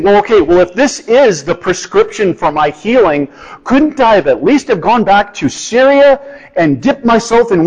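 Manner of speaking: a lightly voiced offended warrior asking for a grander river; indignant Naaman. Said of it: "He's even saying".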